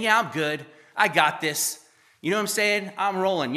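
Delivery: cocky swagger. Retold or imitated. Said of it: "I know you don't literally talk like that".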